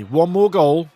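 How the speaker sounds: rallying shout. Real, not acted. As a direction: punch it out like a rallying cry. Urging team for a winner.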